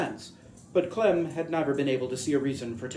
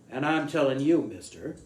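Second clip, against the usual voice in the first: put-on New England accent. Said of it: "Castwell mimicked the driver's New England accent".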